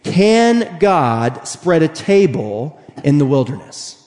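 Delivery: slow weighty psalm question; slow rhetorical question. Retold or imitated. Psalmist asking God, slow. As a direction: let the doubt hang slowly. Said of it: "the psalmist tells us".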